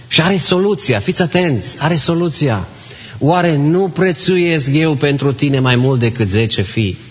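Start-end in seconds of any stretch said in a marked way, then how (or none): 3.2-7.0 slow, gentle husband's comfort; tender reassurance. Retold or imitated. Elcana comforting weeping Ana, slow and tender. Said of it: "Pentru ce ți este întristată inima".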